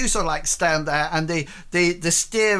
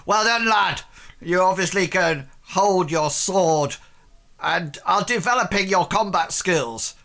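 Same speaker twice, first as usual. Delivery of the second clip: gruff captain praise; 5 semitones higher than usual. Acted. GM voicing Captain Jack.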